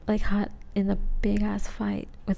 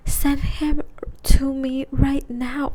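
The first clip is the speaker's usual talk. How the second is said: higher, louder, drawn-out demand; all-caps crazy; 5 semitones higher, 5 dB louder, slower than usual. Retold or imitated. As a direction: imitate a frantic friend texting in capitals. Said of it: "like, in capitals, all crazy".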